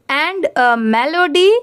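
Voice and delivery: very slow, every word of "and a melody" stretched out for students to echo; slow repeat-after-me reading. Shown as a demonstration. Teacher asks students to repeat "and a melody", very slow. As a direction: draw out "and a melody" slowly, word by word. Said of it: "आप मेरे बात ज़रूर repeat करिए".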